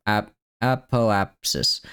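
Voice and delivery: ap, then apoapsis stretched out; halting slow apoapsis; slow sounding out. Shown as a demonstration. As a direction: work through apoapsis slowly. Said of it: "the first syllable is just ah".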